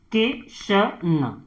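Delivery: किशन stretched out slowly and softly; teacher dragging out किशन so pupils hear each sound; slow, drawn-out reading. Shown as a demonstration. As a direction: spell out किशन slowly, syllable by syllable, for the class. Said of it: "तो क में किसकी मात्रा है".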